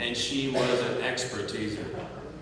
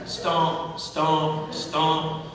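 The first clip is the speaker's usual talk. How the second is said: stomp effect; much slower than usual. Retold or imitated. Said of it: "she would add the stomp".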